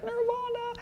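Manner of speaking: hammed-up rapture; ecstatic. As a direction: reach for the gate with a high exultant call. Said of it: "he'd be like".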